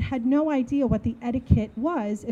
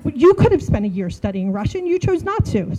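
mock bickering; 5 dB louder than usual. Arguing with her friend over Russian, a louder retort. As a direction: toss the blame right back at her.

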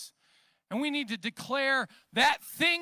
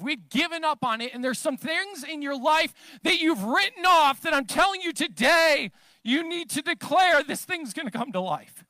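louder, driving sermon delivery; emphatic preaching; 3 semitones higher, 5 dB louder than usual. Real, not acted. Preacher urging congregation to declare life, emphatic preaching. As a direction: preach it with rising conviction.

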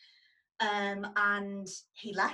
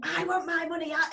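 retold demand; 9 semitones higher, 6 dB louder than usual. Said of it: "he was doing the same thing".

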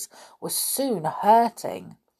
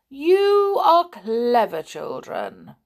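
slow, louder admiring giant; slow big stupid; 6 semitones higher, 7 dB louder, slower than usual. A narrator's reading. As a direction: praise the children slowly.

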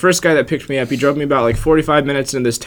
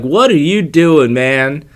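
mock yell; 3 semitones higher, 5 dB louder, much slower than usual. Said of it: "he just yells out".

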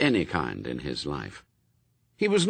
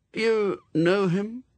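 higher, slow, trying to sound casual; forced nonchalance; 13 semitones higher, slower than usual. A narrator's reading. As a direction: Newt asking Anathema about the guard, forcing casual calm. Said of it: "said Newt with forced nonchalance".

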